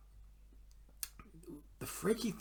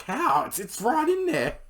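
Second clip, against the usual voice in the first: laughing reply; 12 semitones higher, 7 dB louder than usual. Retold or imitated. He answers laughing.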